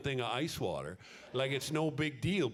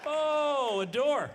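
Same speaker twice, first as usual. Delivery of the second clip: put-on much higher, louder little baby delight; cheerful baby voice; 7 dB louder, much slower than usual. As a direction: squeak it like a delighted baby finding a door. Baby voiced discovering the exit.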